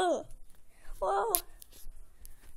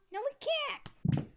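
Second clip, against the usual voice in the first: high, loud, drawn-out cartoon refusal; emphatic refusal; 11 semitones higher, 7 dB louder, slower than usual. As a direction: shout it down, stretching the words. Refuses offer of friendship.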